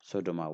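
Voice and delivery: Sodoma quick, with one light d; single d. Shown as a demonstration. Teacher naming the non-word for learners, single d. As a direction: run through Sodoma without stopping on the d. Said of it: "don't have da double".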